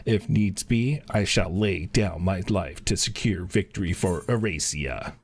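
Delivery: lightly voiced soldier, steady and proud; a hint of a rekindled warrior; resolute lieutenant. The lieutenant thanking the hero for rousing him, lightly voiced.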